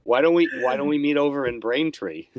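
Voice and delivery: lightly put-on Boston local naming a town; playful Boston accent; mock Boston accent. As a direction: riff on the Boston Accent skit. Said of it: "a skit called Boston Accent".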